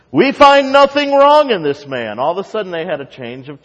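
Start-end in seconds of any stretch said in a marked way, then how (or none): 0.1-2.2 much higher, louder proclamation; shouted defence. Acted. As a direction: cry it out as the scribes. Scribes shouting defence in reading.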